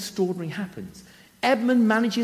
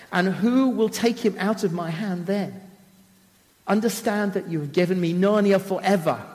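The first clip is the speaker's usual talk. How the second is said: quivering witch voice. Acted. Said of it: "said in a quivering voice".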